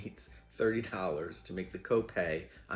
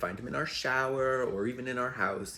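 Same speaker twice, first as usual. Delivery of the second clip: louder, emphatic laying down the law; mock-stern veto, pushed louder; firm refusal; 4 semitones higher, 6 dB louder than usual. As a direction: imitate someone putting their foot down. Boyfriend's firm refusal, acted out.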